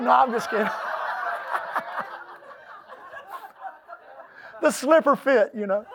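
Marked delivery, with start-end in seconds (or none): 0.7-2.2 laugh. Real, not acted. Laughing at his own joke.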